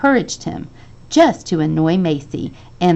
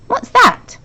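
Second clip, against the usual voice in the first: surprised question; 6 dB louder than usual. A narrator's reading. Curious boy asking.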